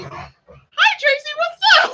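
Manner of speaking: high, loud acted hello; excited shouted greeting. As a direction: call out to a friend, hammed-up excitement. Acts out greeting her friend.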